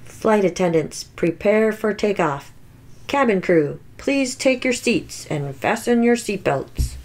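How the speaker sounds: steady captain's PA read; flight announcement. Acted. Pilot tells passengers about safety features, in an airline announcement voice. Pilot orders takeoff prep.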